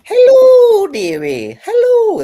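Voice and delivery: put-on very high, loud old-lady falsetto; Mrs. Doubtfire voice. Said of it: "That's my Missus Doubtfire".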